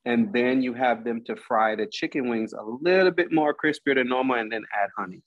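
talking through a mouthful of food; chewing while speaking; mouth full. Real, not acted. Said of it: "I got my mouth full".

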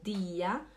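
dir said as "dia"; German dir with no r sound. Shown as a demonstration. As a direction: let the end of "Dia" open into an a. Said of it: "Imagina que tem um A".

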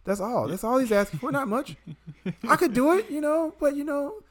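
mock smug patriot defending billionaires; sarcastic pro-billionaire. Mocking billionaire fans to Brian, sarcastic smug believer. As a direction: play the true believer straight-faced and smug. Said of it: "people who say shit like this".

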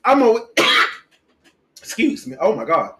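recovering from choking; throat still catching after choking. Real, not acted. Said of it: "I was legit over here choking".

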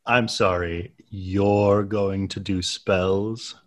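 slow, drawn-out suspicion; suspicious. Acted. Donovan eyeing Nick over his plan to do spells, suspicious. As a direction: question it slowly and suspiciously. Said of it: "looks at Nick very suspiciously".

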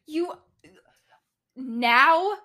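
incredulous outburst. Retold or imitated. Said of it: "I'm like".

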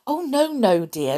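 emphatic reassurance, starting high and dropping; reassuring. A narrator's reading. Doctor soothing an indignant little mouse, reassuring. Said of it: "Dawson reassured her".

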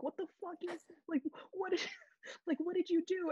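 high, shrill-pitched retold yell at the husband; mom yelling. Mom yelling at dad over the celebrity meal box, high and outraged. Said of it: "he heard her in the background yelling".

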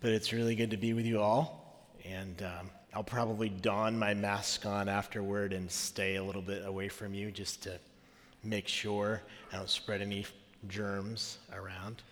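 rough raspy voice from a cold; hoarse, getting over a cold; smoker's voice. Real, not acted. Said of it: "I have this wonderful smoker's voice".

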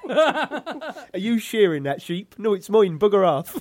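loud, drawn-out comic Welsh farmer; singsong Welsh, rising to a shout; mock Welsh accent. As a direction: bellow in a hammed-up Welsh accent. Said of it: "that's Welsh, isn't it?".

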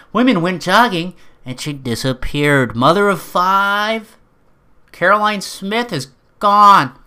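slow, high dramatic newscaster; news anchor voice. Pretend. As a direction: announce it like breaking TV news. Mock news report of disappearance.

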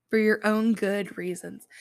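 "good" given weight in the phrase; emphasis landing on "good"; stress on good. Shown as a demonstration. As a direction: lean on the word "good". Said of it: "but for your own good reasons".

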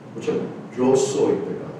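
soft whispered admission; hushed confession. Real, not acted. Preacher quietly confessing he is a sinner.

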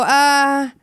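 ordinary talk

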